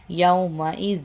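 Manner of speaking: یومئذ read with the nunation joined into the next word; tanween merged. Shown as a demonstration. Teacher demonstrating the merged tanween in یومئذ. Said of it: "تنوین کی آواز کو یا کے ساتھ ملا کے".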